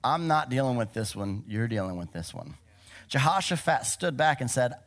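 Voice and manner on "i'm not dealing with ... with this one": lightly voiced stern parent. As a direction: hand the problem back like a parent. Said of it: "me as a parent saying".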